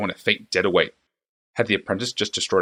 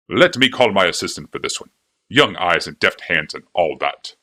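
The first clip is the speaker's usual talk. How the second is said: fawning clockmaker; 3 semitones lower, 4 dB louder than usual. A narrator's reading. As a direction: gush over the princess like an eager flatterer. Clockmaker defers to assistant.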